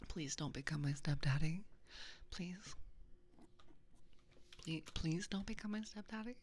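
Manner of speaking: begging earnestly, half in play; mock pleading. Streamer begs chat not to become a stepdaddy, mock pleading. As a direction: plead with a rising lilt. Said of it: "Please don't make me beg".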